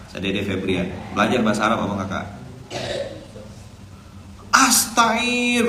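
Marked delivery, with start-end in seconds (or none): 4.5-5.7 high yelled "Astair"; loud wrong word. Retold or imitated. Retelling the officer's loud blunder, mock yell. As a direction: bellow the mistaken word. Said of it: "kata dia, udahlah kuat".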